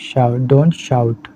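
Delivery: slow model sentence. Shown as a demonstration. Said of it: "बोलते हैं थोड़ा सा shout".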